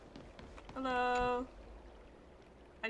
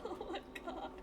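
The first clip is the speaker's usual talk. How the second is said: stunned disbelief; 6 semitones higher, 9 dB quieter than usual. Real, not acted. Stunned after NPC vanishes.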